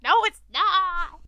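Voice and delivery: insist, mortified; embarrassed protest. Retold or imitated. Retorting to the cashier.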